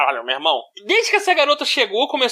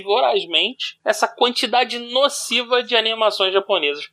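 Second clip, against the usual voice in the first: formal reading; 3 semitones lower than usual. Acted. Reading the written text aloud.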